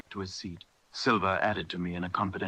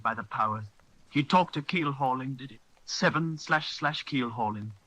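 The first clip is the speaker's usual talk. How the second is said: excited; 4 semitones higher than usual. Acted. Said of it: "now quite excited".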